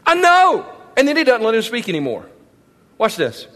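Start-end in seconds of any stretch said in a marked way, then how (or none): 0.0-0.7 God's firm declaration. Retold or imitated. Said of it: "God tells Satan".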